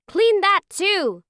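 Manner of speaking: high, loud, drawn-out command; exasperated order. A narrator's reading. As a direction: stretch each word as a fed-up mother. Mother orders after the spill.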